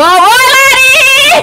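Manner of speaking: loud, high, drawn-out call. Real, not acted. Player hailing her friend Lari in-game, loud and high. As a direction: call her name across the room, stretched slow. Calling teammate during game.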